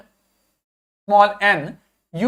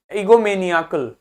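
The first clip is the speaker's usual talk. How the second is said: ईगोमेनियाकल as one word, stressed on निया; निया standing out within an unbroken ईगोमेनियाकल. Shown as a demonstration. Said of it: "निया अलग से सुनाई दे रहा".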